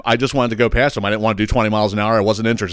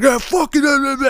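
high, dismissive mock voice of the driver; mocking the other driver; 14 semitones higher than usual. Imitating the rude driver brushing him off, high dismissive mock voice.

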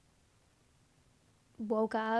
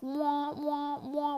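alarm siren noise; 4 semitones higher, much slower than usual. Retold or imitated. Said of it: "was going off in my head".

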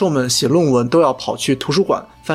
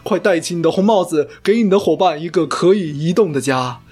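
over eager infomercial. Pretend. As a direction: sell it like a late-night ad host. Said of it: "这里要插入一个小广告". (夸张的电视购物广告腔)

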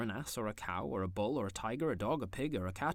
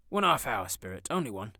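louder eager pleading; begging; 7 dB louder than usual. A narrator's reading. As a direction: plead like a boy. Scrooge begs to stay.

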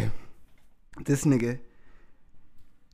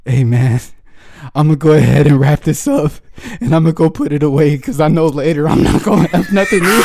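quoting Daryl; 5 dB louder than usual. Retold or imitated. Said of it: "He's like".

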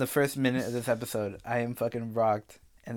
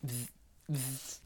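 bug zapper buzz; 3 semitones higher, 10 dB quieter than usual. Shown as a demonstration. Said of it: "little buzz noises like a bug zapper".

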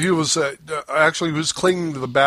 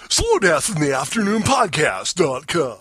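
lightly voiced radio DJ plug; a hint of drive-time announcer. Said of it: "do that in a drive".

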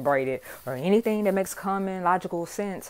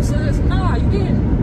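sassy high put-down; 12 semitones higher, 7 dB louder, much slower than usual. Real, not acted. Mocking the driver who cut in.

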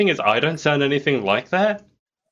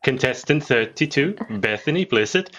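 higher, sing-out contestant introduction; contestant announcement impression; 3 semitones higher than usual. Host teasing Beth with her remembered phrase, announcer impression. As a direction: mimic a pageant announcer, pitched up. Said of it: "I remember your phrase as well".

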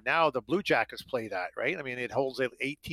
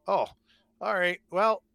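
dismissive scouts; 7 semitones higher, 4 dB louder than usual. Retold or imitated. Scouts dismissing him, retold.

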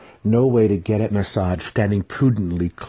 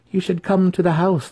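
haughty matron; 12 semitones higher, 4 dB louder than usual. Acted. Matron invites him.

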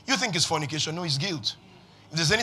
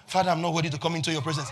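timid supplicant; 3 semitones lower, 3 dB quieter, much faster than usual. Acted. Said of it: "That's how we come before God".

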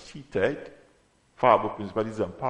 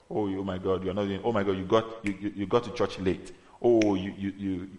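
self-accusing flesh; 2 semitones lower than usual. Acted. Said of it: "Your flesh may want to point you to self".

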